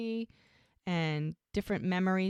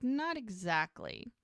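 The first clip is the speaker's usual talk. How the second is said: drawn-out, higher, reluctant reply; slow, hedging answer; hesitant; 4 semitones higher, 3 dB quieter, slower than usual. Retold or imitated. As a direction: drag it out as if unwilling to admit it. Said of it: "He's very hesitant".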